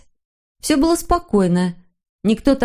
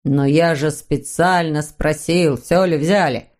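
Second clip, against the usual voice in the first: slow, mildly grumbling father; 3 semitones lower, slower than usual. Acted. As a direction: complain slowly, a touch put out. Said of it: "проворчал папа". (медленно, ворчливо)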